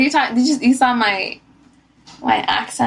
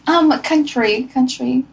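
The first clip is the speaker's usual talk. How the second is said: put-on country girl voice. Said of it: "What's your country girl?".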